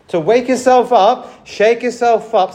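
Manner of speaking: loud, slow rallying cry to wake up; rousing call. Real, not acted. Preacher rousing his congregation, loud and slow.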